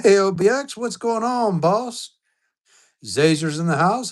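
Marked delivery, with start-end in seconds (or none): 0.0-2.1 high, loud hey to a regular; excited greeting. Real, not acted. Streamer hailing viewer OBX, high and loud excited welcome. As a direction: call out a big welcome, much higher and louder.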